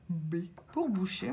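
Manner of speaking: unvoiced whisper to herself. Real, not acted. Scratching tickets, whispering letters to herself. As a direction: murmur the letter as you check it.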